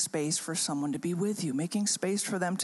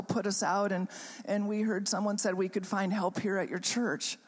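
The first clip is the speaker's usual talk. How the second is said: put-on retelling distraught girls; 4 semitones higher than usual. Retold plea of distraught girls.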